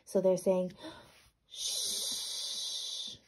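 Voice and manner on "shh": hushed shh; shushing. Acted. Farmer hushing Gilbert with a soft shh. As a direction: shush the pig softly. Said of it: "said the farmer".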